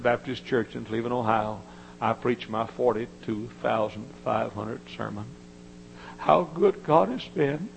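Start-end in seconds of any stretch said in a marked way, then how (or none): 6.2-7.7 praise. Real, not acted. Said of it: "I just praised him".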